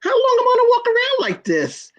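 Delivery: high, crying plea; real tears pushing the words up high; choked-up cry of despair; voice breaking in tears. Real, not acted. Breaks down recalling her suffering.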